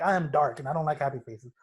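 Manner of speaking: lightly voiced gloomy goth teen; a hint of mopey goth, played for laughs; teacher mocking a goth student, a light gloomy voice. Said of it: "if you're going through a goth stage".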